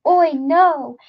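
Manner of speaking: high, loud cry of alarm; distant scream. A narrator's reading. Roland hearing Jake scream for Oi, loud cry. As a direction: echo the boy's scream.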